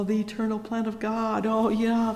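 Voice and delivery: ordinary talk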